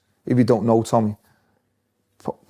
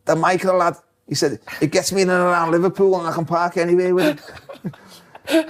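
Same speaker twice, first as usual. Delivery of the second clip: put-on Scouse accent; 5 semitones higher than usual. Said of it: "He'd go".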